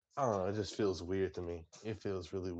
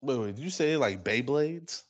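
surprised; 6 semitones higher, 7 dB louder than usual. Real, not acted. Stunned by the odd comparison.

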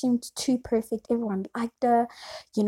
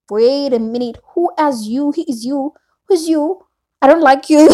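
shocked challenge; 4 semitones higher, 8 dB louder than usual. Retold or imitated. Acts out her shocked challenge to caller.

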